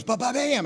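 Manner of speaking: mimicked banging hammer noise; imitated hammer blows. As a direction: make the sound of a hammer striking. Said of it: "that hammer goes".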